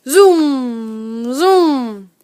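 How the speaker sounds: long, loud roaring zoom; jet zoom. A narrator's reading. Narrator voices a jet flying over the camp. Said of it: "That's a jet".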